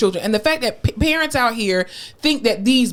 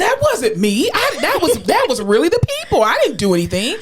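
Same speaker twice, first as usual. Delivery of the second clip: high, whiny devil pleading innocence; hammed-up crying excuses; mock tearful protest; 5 semitones higher than usual. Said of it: "He's probably crying, like".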